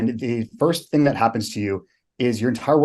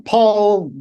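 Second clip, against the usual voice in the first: high, loud shouted name; recruit scream; 10 semitones higher, 6 dB louder than usual. Retold or imitated. Recruit screaming his name at the drill instructor. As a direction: yell your name at the instructor. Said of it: "So I scream".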